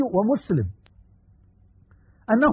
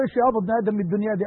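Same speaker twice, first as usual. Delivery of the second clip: quick retold question; much faster than usual. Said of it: "فبقول له".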